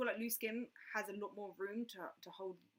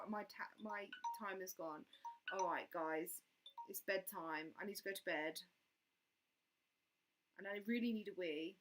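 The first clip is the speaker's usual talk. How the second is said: ordinary delivery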